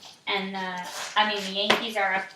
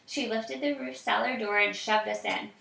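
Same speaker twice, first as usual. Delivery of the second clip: put-on reading aloud to a child, evenly; story narration. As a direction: tell the story calmly.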